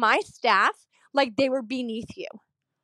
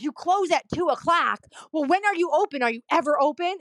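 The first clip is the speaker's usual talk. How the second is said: imitating an outraged patient, pitched up; mock incredulous challenge, higher voice; indignant questioning; 5 semitones higher than usual. Patient challenges the office hours, indignant mock questioning.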